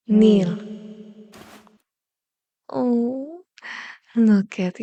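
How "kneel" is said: a loud, single-word order; command. Acted. Villain ordering the hunter to kneel, loud. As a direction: bark it so they drop.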